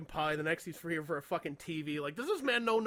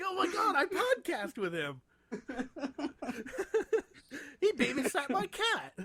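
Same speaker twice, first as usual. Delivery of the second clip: mock surprise; 8 semitones higher than usual.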